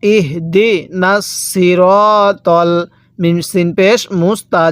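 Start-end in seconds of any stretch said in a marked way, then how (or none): 0.0-2.7 drawn-out recitation, each syllable stretched; measured tajweed reading, slow and even; slow Quran recitation. Shown as a demonstration. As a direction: recite slowly so the students can follow. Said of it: "কিভাবে শিখব?".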